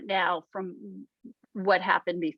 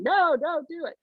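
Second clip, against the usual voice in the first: higher, strange little inner-critic voice; a sharp, higher gremlin warning; 7 semitones higher than usual. Retold or imitated. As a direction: play the nagging gremlin, pitched up. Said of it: "your gremlin's going".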